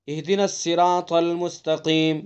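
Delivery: اہدنا الصراط المستقیم with the ص of الصراط thin, like س; blurred ص. Shown as a demonstration. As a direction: demo the error, ص said as plain س. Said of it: "پتہ نہیں لگا کہ سین پڑھا ہے یا صاد پڑھا ہے". (ص اور س کا فرق مٹا کر پڑھنا)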